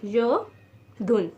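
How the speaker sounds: योदुन drawn out very slowly; slow model word. Shown as a demonstration. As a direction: stretch योदुन for learners. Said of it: "eighty को हम लोग कहते हैं योदुन".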